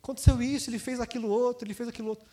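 lightly whiny married daughter complaining to mom; mock-complain like a clingy daughter. Married daughter calling mom about every fight, a touch whiny. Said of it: "toda briga ela ligava pra mãe".

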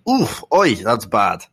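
mocking a gloomy nurse's diagnosis; imitating the doctor. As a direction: mimic the nurse's dismayed verdict. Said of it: "is what she said".

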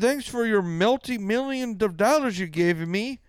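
high-pitched mock country-star voice. Mocking the singer thanking fans for millions, high-pitched impression. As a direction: gloat in a put-on high voice. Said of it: "the singer's like".

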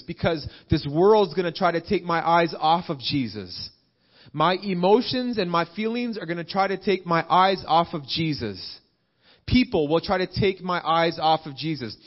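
insistent, building sermon list; forceful preaching. Real, not acted. Preacher warning what pulls his eyes off Jesus, forceful preaching. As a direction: drive each repeated warning home.

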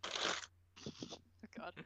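breathy embarrassed whisper; whispered oh god. Real, not acted. Embarrassed friend whispers at the teasing. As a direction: hide the words in a whisper.

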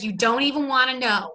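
imitated Brooklyn nail-salon accent; a light put-on Brooklyn accent. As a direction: quote her in a sassy Brooklyn accent. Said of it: "really similar kind of accent".

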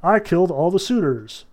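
cheery eagle. Retold or imitated. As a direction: reassure her like it's great news. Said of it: "And the eagle is like".

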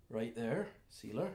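mildly hushed soothing; understated calming voice; calming elf. Acted. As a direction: gently settle an animal. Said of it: "holds up his hand and goes".

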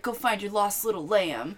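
lightly imitated Southern preacher; mock a Bible-quoting Southerner; weird southern accent. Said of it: "he has this weird southern accent".

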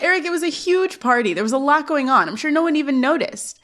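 high, insistent imitated protest; defensive protest. Boy defending himself to his laughing brother, defensive. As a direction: play a kid brother pleading his case.

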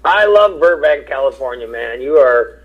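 speaking with half the face numb. Real, not acted. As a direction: talk through a numb mouth. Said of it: "the left side of my face is numb".

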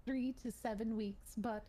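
put-on old Hollywood prim proper voice; glamorous old Hollywood star accent; Mid-Atlantic accent. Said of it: "In the Mid-Atlantic accent".

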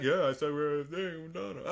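high sing-song mockery; mock whiny voice. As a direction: whine it like a teasing ex. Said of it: "It's like".

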